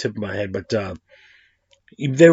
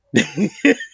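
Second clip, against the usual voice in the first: high laugh; 10 semitones higher than usual. Real, not acted. Laughs at his own joke.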